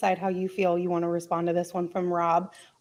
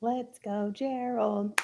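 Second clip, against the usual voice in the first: whisper; 10 dB quieter, much slower than usual. Real, not acted. Whispered urging of Gerald.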